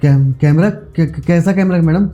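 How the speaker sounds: flustered, halting denial; nervous stammer. Acted. Caught out, feigns ignorance about camera.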